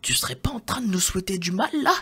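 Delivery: fast, high whisper of suspicion; quick high accusing whisper; suspicious whisper. Pretend. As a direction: hiss it quickly like a sidekick calling him out. Second voice accuses Mogo.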